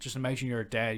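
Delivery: ordinary delivery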